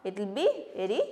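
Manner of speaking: showing the class what soft sounds like; soft demo. Shown as a demonstration. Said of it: "soft അല്ലേ".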